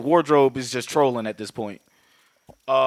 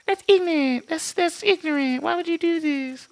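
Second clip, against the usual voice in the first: mock outraged.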